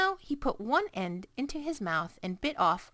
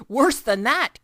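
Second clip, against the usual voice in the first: roaring with laughter; 5 semitones higher, 11 dB louder, slower than usual. A narrator's reading. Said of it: "roaring with laughter".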